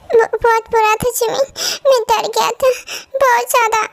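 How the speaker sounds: small kid nervously recalling a bad dream; scared little boy.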